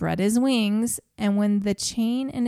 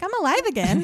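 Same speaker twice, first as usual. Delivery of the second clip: high excited exclamation; mock joyful brother; 10 semitones higher, much faster than usual. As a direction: squeal it out like a boy brought back to life. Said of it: "He's like".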